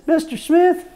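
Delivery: high, loud put-on judge voice calling the name; imitating the judge. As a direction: call Mister Smith with a rising, high judge voice. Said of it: "He says".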